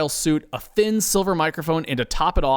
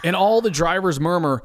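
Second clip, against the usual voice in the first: ordinary delivery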